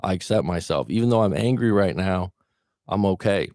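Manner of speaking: steady, calm setup statement; soothing EFT affirmation; tapping affirmation. Shown as a demonstration. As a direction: recite it gently to yourself. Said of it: "we'll tap out on".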